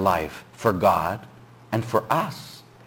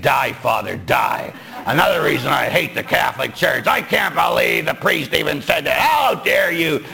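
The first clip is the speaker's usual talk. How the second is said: mock outraged hiss of hate, a little higher; mock furious women; 3 semitones higher than usual. Brides silently curse the priest, mock outrage. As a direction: play the offended brides, hammed up.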